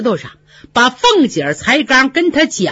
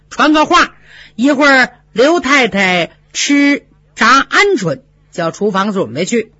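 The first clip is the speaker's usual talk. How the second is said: lightly voiced Fengjie giving quick orders; shrewd mistress. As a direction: plan ahead and instruct her maid.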